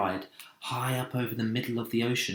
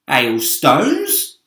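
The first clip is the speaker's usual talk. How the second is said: scoffing question; 3 semitones higher, 11 dB louder than usual. Acted. Centipede scoffing.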